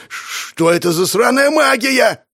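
high, slow, loud yell; panicked yell. Acted. Bald bandit yells at the strange magic, panicked. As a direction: scream it in terror. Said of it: "прокричал он".

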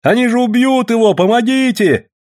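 high frantic cry; panicked call for help. A narrator's reading. Woman at a knife fight, panicked cry for help. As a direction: cry out high for someone to step in.

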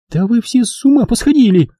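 a lightly read shriek; mild squeal. A narrator's reading. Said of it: "завизжала она".

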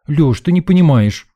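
loud, high protest; girl pushing back at him loudly; going on the attack. Acted. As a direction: launch into the attack. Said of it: "кинулась в атаку".

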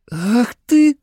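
high, angry outburst; angry girl. A narrator's reading. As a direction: start to scold in anger. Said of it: "гневно начала она". (гневно, высоким голосом)

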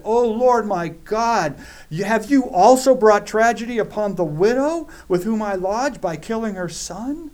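a desperate prophet crying out to God; anguished cry to God. Acted. Elijah crying out to God over the dead son, panicked.

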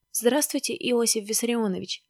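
mild, timid greeting; voice turning pale. Acted. Maskin answers Stalin, voice turning pale. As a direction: answer with a touch of awe. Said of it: "побледнел голосом".

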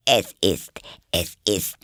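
timid, halting, slow delivery; shy. A narrator's reading. White Rabbit making small talk beside Alice, shy. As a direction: start hesitantly, then continue shyly. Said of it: "sagte eine schüchterne Stimme".

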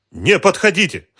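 very high, loud warning; desperate shout. A narrator's reading. Woman holding the detective at gunpoint, desperate shout. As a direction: keep him back at gunpoint. Galina draws a pistol.

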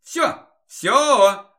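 dreamy. Acted. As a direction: swoon it out playfully. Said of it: "Мечтательно закатывая глаза".

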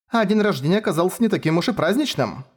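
high, rueful remark with a dry snort; gloomy irony; joyless scoff. A narrator's reading. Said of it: "невесело хмыкнула Шура". (невесело хмыкнула)

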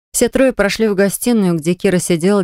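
ordinary delivery, nothing marked

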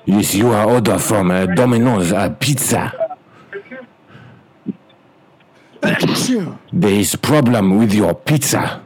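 clipped broken English, hammed-up Chinese accent; mock Chinese accent. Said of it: "as an Asian guy".

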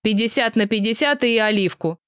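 mocking mimicry. Elias teasing Vasya by parroting her order. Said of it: "передразнил её Элиас".

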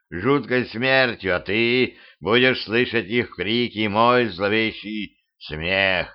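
lightly voiced gloating villain; mustache twirling villain. Villain spider threatens captive.

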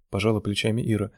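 plain reading voice

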